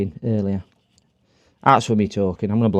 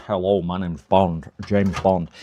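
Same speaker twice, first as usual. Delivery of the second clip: lower, slower mock Bond voice; a lightly voiced suave spy line; imitating James Bond; 5 semitones lower, 3 dB quieter, slower than usual. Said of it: "I do a really good James Bond".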